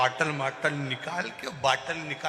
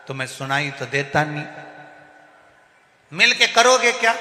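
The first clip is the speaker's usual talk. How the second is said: mock yell; 7 dB louder than usual. Grandson yells at grandpa, mocking shout. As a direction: yell back at the deaf grandpa. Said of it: "नाना चिल्ला कर बोला".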